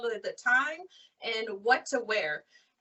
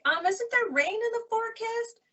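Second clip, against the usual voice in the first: put-on higher, hesitant questioning girl; nervous girlfriend; 10 semitones higher than usual. Girlfriend scared of flying questions her boyfriend, higher and hesitant. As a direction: ask it like a scared flyer looking for a way out.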